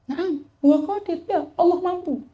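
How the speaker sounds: high, gentle smiling reply; smiling answer. Acted. The sheikh smiles as he answers the drunkard again. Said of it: "Dijawab sambil senyum".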